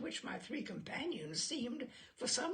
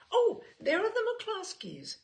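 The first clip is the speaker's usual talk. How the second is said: bright high call, much louder; excited greeting; 11 semitones higher, 9 dB louder than usual. Acted. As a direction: call out the friends' names eagerly across the room. Jessie greets arrivals at party.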